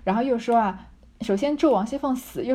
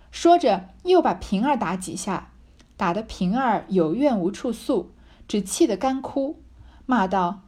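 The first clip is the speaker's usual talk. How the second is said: slow, measured reading of the novel text; deliberate classical narration; reading the classic aloud; slower than usual. A narrator's reading. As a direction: read it like an old storyteller, taking your time. Reads the original novel text.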